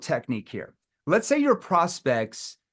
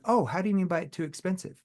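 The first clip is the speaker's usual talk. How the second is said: playful curious; 3 semitones higher, 3 dB quieter than usual. Shown as a demonstration. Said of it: "playful tone".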